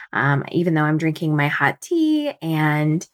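hoarse, just-woke-up voice; slightly rough early morning voice; raspy morning voice. Real, not acted. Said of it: "so sorry if I sound a little raspy this morning".

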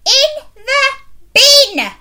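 harsh headmistress. Acted. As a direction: spit out the cruel answer. Headmistress answering Miranda harshly.

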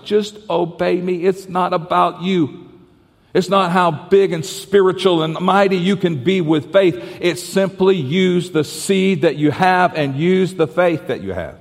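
voicing Jesus. Jesus telling his disciples, slow and earnest. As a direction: lift the pitch and slow down, plainly sincere. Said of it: "what Jesus was saying to the disciples".

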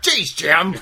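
short, exasperated impression of Judy; nagging backseat driver. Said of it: "it's more like".

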